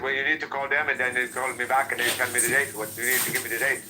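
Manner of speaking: fast imitated African accent; hurried mock African accent. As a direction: rattle it off like an African representative. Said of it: "She said".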